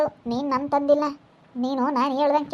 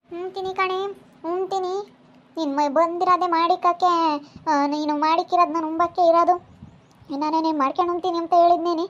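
higher-pitched, defiant comeback; defiant retort; 4 semitones higher than usual. Acted. Answering back in a quarrel over eating the other's cooking, defiant. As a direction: argue back in a raised pitch.

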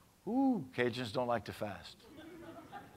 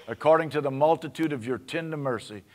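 loud pleading read of the psalm; psalm as prayer; 4 semitones higher, 8 dB louder than usual. Acted. Pastor voices David pleading for mercy, loud. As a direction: beg God through the psalm.

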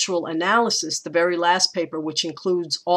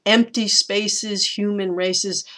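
"Empty spaces, human races" stressing "EM" and "HU"; trochee rhythm; 4 semitones higher, slower than usual. Shown as a demonstration. Teacher rereading the pairs for her class. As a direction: mark the first syllables. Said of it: "I read race is as a spondee".

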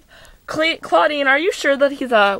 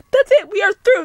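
high-pitched indignant outburst; indignant break-up; 6 semitones higher, 3 dB louder, faster than usual. Acted. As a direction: dump him in a melodramatic huff. Acted break-up quarrel.

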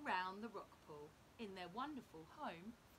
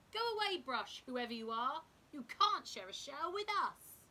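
grumpy crab; 4 semitones higher, 9 dB louder than usual. A narrator's reading. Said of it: "crab refusing the brush".

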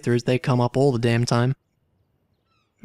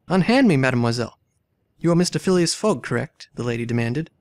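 dramatic story reading; 4 dB louder than usual. A narrator's reading. Player reading game dialogue aloud, lively character reading. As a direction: voice the valet's protest, then the lady's demand. Voicing valet and lady.

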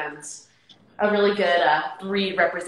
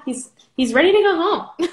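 high, louder, giggling through it; laughing; 10 semitones higher, 7 dB louder than usual. Real, not acted. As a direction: laugh as you say it. Same line said twice, laughing.

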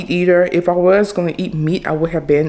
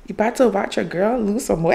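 excited; 3 semitones higher, faster than usual. Real, not acted. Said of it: "I'm just excited".

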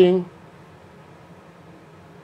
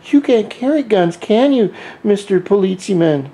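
higher, jeering dare at the cop; mocking taunt; 7 semitones higher than usual. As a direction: taunt an imagined German policeman, pitched up and cocky. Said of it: "And then I say".

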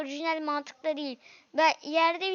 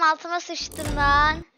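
louder, slow, still rattled; shaken excitement; 6 dB louder, slower than usual. Real, not acted. Escaped monster, repeats line.

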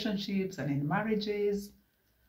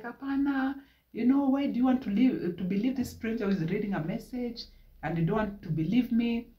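pleading protest; 5 semitones higher than usual. Retold or imitated. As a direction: plead to be believed. Wife pleads with husband.

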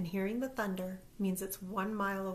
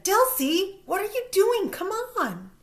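loud high impatient call; yells; 11 semitones higher, 9 dB louder than usual. A narrator's reading. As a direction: call her friend away, impatient. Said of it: "Brandy yells again".

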